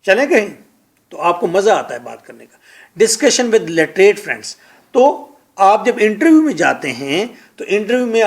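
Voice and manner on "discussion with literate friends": slow. Shown as a demonstration.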